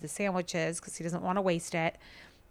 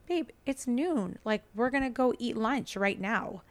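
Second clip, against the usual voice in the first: exasperated; 5 semitones higher than usual. Retold or imitated. Exasperated reply to husband.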